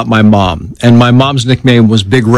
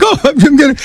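mock crying; 13 semitones higher than usual. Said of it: "I'm crying like".

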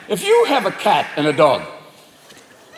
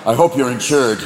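mildly menacing deer voice; vengeful buck; 3 semitones lower than usual. Acted. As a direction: threaten a driver like an avenging buck. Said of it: "five-point buck that jump out".

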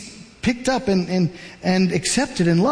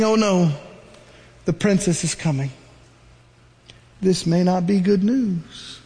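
worried Miriam; 2 semitones lower than usual. Acted. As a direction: dread creeping in as she watches. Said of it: "Miriam is saying".

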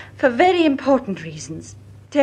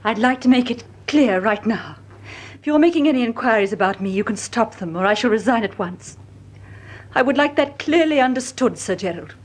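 ice-cold edge. Acted. Margaret warns Sir Gerald to stop his inquiries, icy and firm. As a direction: lay down the terms with an icy edge. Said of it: "There was an ice-cold edge to her voice".

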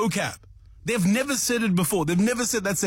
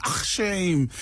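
"shame" leaned on and drawn out, falling at the end; mildly imitating the habit, press hard on "shame"; emphasis on shame. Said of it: "that puts such emphasis on the shame".

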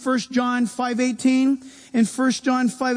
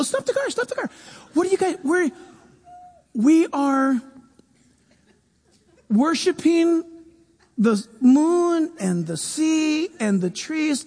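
mock a new-age enthusiast, pitched way up; excited Shirley MacLaine; 3 semitones higher than usual. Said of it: "Shirley MacLaine would go".

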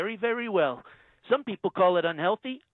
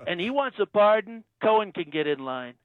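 Trump impression. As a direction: play the president, smug and self-assured. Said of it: "Donald Trump".

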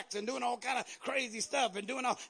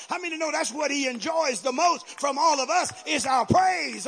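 rising, louder preacher exhortation; fiery sermon climax, louder and louder; preaching at full force; 3 semitones higher, 6 dB louder than usual. Acted. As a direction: build the crowd up.

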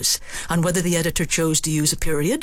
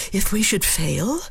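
fearful; 2 semitones higher than usual. Acted. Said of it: "Suppose Macbeth says fearfully".

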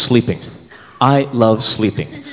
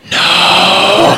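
refusal; 5 semitones higher, 3 dB louder than usual. Retold or imitated. Refusing to smell arm.

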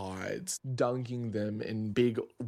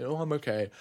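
higher-pitched, retold polite brush-off; polite refusal; 5 semitones higher, faster than usual. Tourist declining a handful of mint from a stranger, retold polite refusal. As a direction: re-enact a wary little no thanks.

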